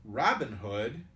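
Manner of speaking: mildly eager exclamation; eager cry. A narrator's reading. The youth in scarlet hears Robin's name, crying eagerly. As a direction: cry the name as a keen question. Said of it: "he cried eagerly".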